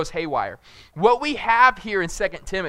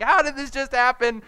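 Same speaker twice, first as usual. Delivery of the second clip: raised, shaken imitation of wife; mock distraught wife; 8 semitones higher than usual. Father imitating his wife after the rescue, mock distraught voice. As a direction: imitate her late panic. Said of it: "she just starts freaking out".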